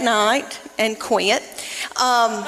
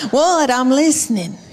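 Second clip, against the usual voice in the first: exasperated mom; 3 semitones higher than usual. Retold or imitated. Mom to little girl after endless mama, exasperated snap. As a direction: bite back, fed up but amused.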